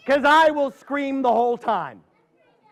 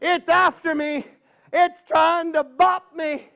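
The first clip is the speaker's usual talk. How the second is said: put-on high, panicky old woman; a scared granny pleading for help, pitched up high; frightened old lady; 6 semitones higher than usual. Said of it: "She says".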